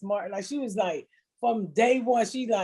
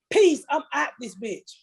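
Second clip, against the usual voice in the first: put-on sassy kid; 5 semitones higher than usual. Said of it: "I couldn't believe she said it".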